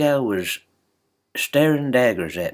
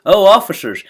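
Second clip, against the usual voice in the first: calling out; 8 semitones higher, 11 dB louder than usual. Retold or imitated. Calling out to passing cops.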